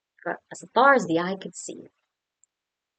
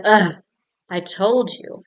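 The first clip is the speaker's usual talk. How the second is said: loud, irritated dragon groan and complaint; louder exasperated dragon; annoyed dragon; 6 dB louder than usual. Acted. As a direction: grumble like a bothered dragon. Dragon annoyed at second knock.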